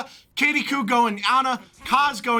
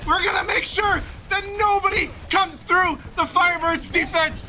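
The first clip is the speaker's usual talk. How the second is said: hyped shout; 6 semitones higher than usual. Real, not acted. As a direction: shout it out with hype. Hyped caster shouting at opponents.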